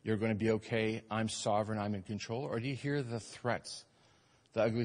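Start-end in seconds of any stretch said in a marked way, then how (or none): 0.0-2.4 soft, gentle reassurance, a hint of the Savior speaking. Preacher voicing Savior comforting fearful listeners, gently soft. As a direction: quietly reassure like a loving savior. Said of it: "the gentle voice of the Savior".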